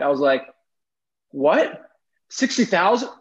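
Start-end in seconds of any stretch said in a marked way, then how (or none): 1.3-3.1 retold shock, louder and rising high; inner screaming. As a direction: recoil from the figure in mock disbelief. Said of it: "I was screaming inside".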